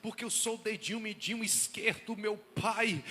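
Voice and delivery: hammed-up wailing prayer that builds to a loud cry; mock groveling prayer. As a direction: ham up a self-pitying believer begging God. Mocking a self-abasing prayer.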